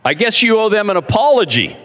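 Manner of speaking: tough-guy voice. Retold or imitated. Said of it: "combination of Clint Eastwood and Jason Bourne".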